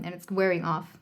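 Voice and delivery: normal talking voice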